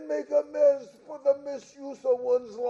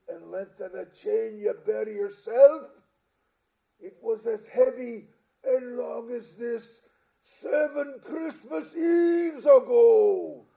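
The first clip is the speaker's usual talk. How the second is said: ghostly shout; 3 semitones lower, 4 dB louder than usual. Acted. Ghost rebukes Scrooge about chains.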